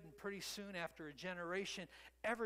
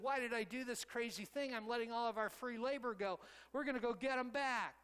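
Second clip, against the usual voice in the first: higher and louder, an indignant king changing his mind; angry Pharaoh; 6 semitones higher, 4 dB louder than usual. Retold or imitated. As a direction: push it up as a furious ruler rallying his army. Pharaoh regrets freeing slaves.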